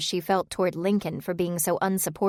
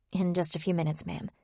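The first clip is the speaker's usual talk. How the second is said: softer, polite but gritted teeth; through gritted teeth; 5 dB quieter than usual. Acted. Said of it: "replied politely through gritted teeth".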